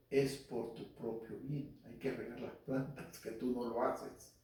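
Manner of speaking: hushed words from God. Acted. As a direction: speak softly, as God gently explaining. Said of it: "sentimos que Dios dice".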